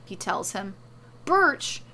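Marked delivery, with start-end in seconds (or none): 1.3-1.8 high, loud, short cry of BIRCH; startled first outcry; incredulous yell. A narrator's reading. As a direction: exclaim the word in disbelief. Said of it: "Morrow yells".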